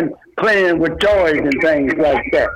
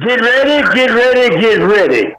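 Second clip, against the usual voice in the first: hyped wrestling announcer intro; wrestling promo. Pretend. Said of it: "in your best, uh, wrestling promo here".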